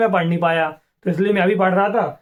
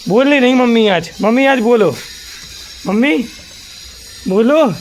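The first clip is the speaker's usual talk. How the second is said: calling out; 4 semitones higher than usual. Real, not acted. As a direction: coax mom to speak up, rising on each call. Coaxing silent mom to talk.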